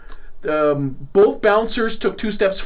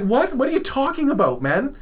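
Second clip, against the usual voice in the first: high, incredulous what; retelling being stunned by a drunk's challenge; stunned disbelief; 6 semitones higher than usual. Retold or imitated. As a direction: react as if you cannot believe your ears. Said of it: "I was stunned".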